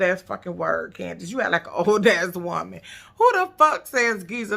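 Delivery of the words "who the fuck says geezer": higher, louder disbelieving question; incredulous. Real, not acted. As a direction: scoff in disbelief. Mocking the word geezer.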